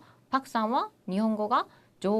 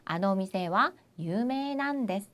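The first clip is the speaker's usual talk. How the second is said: slow model answer; slower than usual. Shown as a demonstration. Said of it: "나 빼고 다시 뭐라고요".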